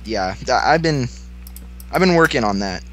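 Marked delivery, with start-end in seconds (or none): 0.0-1.1 put-on tipsy Russian accent, lightly done. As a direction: speak like a slightly drunk Russian. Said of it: "meet my Russian friend".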